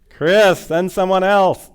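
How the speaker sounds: loud, high-pitched mock protest; mock plea. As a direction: cry it out in comic desperation, imitating a begging refusal. Acting out his own call with Chris.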